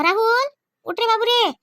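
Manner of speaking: mother's wake-up call. Acted. Mother wakes her sleeping son, calling out. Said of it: "किती जोराने ओरडत आहे".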